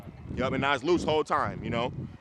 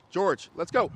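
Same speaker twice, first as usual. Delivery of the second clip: calling the dog; 5 semitones higher, 5 dB louder than usual. Real, not acted.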